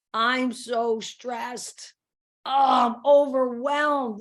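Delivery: slow, drawn-out groaning complaint; stressed complaining. Acted. Putting herself down over a full day, stressed complaining. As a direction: drag out each word, overburdened. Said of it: "putting ourselves down or saying".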